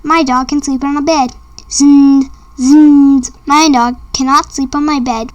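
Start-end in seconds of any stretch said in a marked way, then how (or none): 1.7-3.3 loud buzzing snore sounds; snoring dog. Pretend. Reading aloud, the dog snores on the bed with loud snorts.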